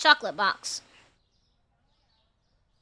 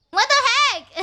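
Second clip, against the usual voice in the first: shocked what the heck; surprised; 9 semitones higher than usual. Real, not acted. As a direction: react as if the game just broke. Surprised at game glitch.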